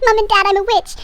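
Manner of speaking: excited announcement. Retold or imitated. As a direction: imitate a girl bursting with news. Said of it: "she gets all excited".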